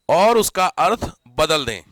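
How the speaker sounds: और उसका अर्थ बदल दें slowed right down, each word spaced; slow dictation. Shown as a demonstration. Teacher dictates slowly for students taking notes. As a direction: spell it out slowly so they can write. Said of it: "जानबूझ के बोल रहा हूं मैं".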